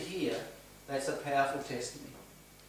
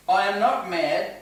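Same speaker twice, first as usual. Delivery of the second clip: respectful tone; 3 semitones higher, 6 dB louder, slower than usual. Retold or imitated. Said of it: "in a very respectful tone".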